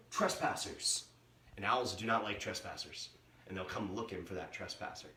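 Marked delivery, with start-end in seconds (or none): 0.1-1.0 whispered, gasping owl; hushed alarmed whisper of an owl; owl's alarmed thought. Retold or imitated. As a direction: breathe it like a startled owl. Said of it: "that owl's gonna think".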